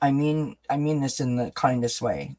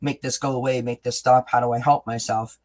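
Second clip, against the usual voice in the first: mock panicked pleading. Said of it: "and we're like".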